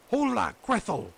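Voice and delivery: high, loud witch call; witch crying out. A narrator's reading. Witch calling Grethel impatiently, high loud witch voice. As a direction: shout for the girl like an impatient witch. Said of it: "she cried to the girl".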